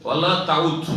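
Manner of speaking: ওয়ালা তাউদ said with the long a of তাউদ in full; ওয়ালা তাউদ pronounced deliberately as a model for students; correct Arabic pronunciation. Shown as a demonstration. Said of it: "এটি হচ্ছে সহি উচ্চারণ".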